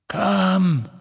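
high cold dark lord command. Acted. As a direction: order him coldly. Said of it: "sagte Voldemort".

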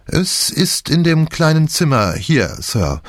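a nosy maid, barely hiding excitement; eager maid. A narrator's reading. Maid showing telephone.

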